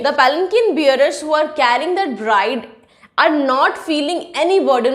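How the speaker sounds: very slow, word by word, like dictation; slow English explanation. Shown as a demonstration. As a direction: spell out each word slowly for the class. Teacher restates point in English.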